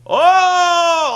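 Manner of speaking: high, loud whooping "Oh!"; excited whoop. Retold or imitated. Beer Money reacting to the bottle on the bench, loud whoop. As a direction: whoop like the whole locker room caught someone. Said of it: "And Beer Money's like".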